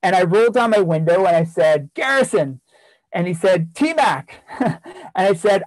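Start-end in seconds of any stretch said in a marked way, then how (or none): 1.9-2.6 higher-pitched call to someone outside; retold hail from a car window, falling at the end. Calls to student from car window. 3.7-4.4 imitated student's high-pitched hail; greeting call. Student calls back in greeting.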